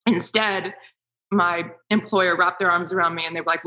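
normal talking voice

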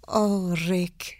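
slow, soft Bergman line ending in a whisper; slow, hushed Bergman delivery with a rolled R; Ingrid Bergman. Shown as a demonstration. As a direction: draw it out like Casablanca, consonants crisp. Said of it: "I said".

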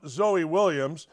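ordinary talk, nothing marked

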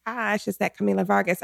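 soft, starstruck aside; hushed surprise. Retold or imitated. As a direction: say it under your voice on spotting a star. Retold star sighting in store.

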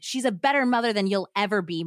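loud, sharp retort. Acted. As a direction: fire it back at her. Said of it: "Mark retorted".

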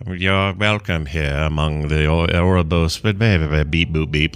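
lightly voiced soothing robot; ASMR robot voice. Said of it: "A S M R robot-y people".

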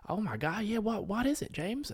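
high, excited mother voice asking; impersonation of mum. Retold or imitated. Boyfriend mimicking her mum asking what's up, high and eager. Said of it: "not gonna like that impersonation".

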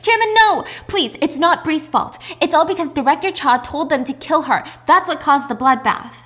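high, loud pleading yell; desperate scream. Retold or imitated. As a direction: beg him to stop, shouting. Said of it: "is screaming".

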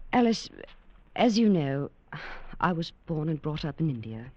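measured storyteller recounting the past; story narration. A narrator's reading. Cynthia tells Alice about Paris in narration. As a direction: narrate gently over the music.

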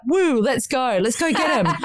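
mock excitement. Mock eager beach cheer.

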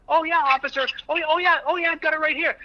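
high, casual "oh yeah, officer" patter; breezy suspect voice. Retold or imitated. Suspect in a training video chatting up the officer, high and breezy. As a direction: play the easygoing guy reaching for his papers. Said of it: "talking to them like".

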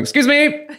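high, loud prissy excuse me; mock polite. Pushing past plane passengers, prissy mock politeness. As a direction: play a petty Basil Fawlty.

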